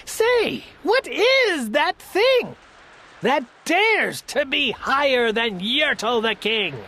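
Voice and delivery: lightly voiced indignant turtle king. Yertle demands more turtles.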